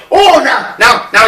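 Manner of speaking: high-pitched mock alarm; hammed-up flustered protest; flustered outburst. Gunman finding a grill between him and his target, mock flustered.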